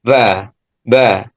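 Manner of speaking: Ba, ba with the lips fully closed, breath held; firm ba demo. Shown as a demonstration. Teacher demonstrates a held ba, not like fa. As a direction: show a firm, stopped Ba, ba. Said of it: "maka menyerupai suara fa".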